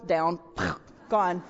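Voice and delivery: low, laughing aside. Real, not acted. Pastor laughing at her son's drawing. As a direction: chuckle it out.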